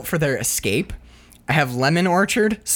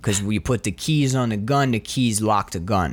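dim cop voice; 6 semitones lower than usual. Retold or imitated. Voicing dim cop character.

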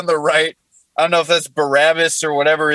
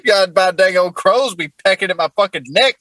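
put-on Jesus, southern accent. Comic voicing Jesus complaining on the cross, southern accent. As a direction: run it together like a southern good old boy. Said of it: "What Jesus said on the cross in a southern accent".

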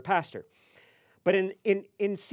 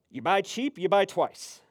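loud, raised pronouncement; super serious stranger; 4 semitones higher, 6 dB louder than usual. Retold or imitated. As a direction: declare the cliché like profound truth. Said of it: "super serious".

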